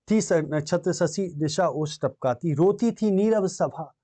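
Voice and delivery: slow, drawn-out verse; poem recitation. Acted. Teacher reciting the starlit night scene, slow verse recitation. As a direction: recite slowly, lingering on each word.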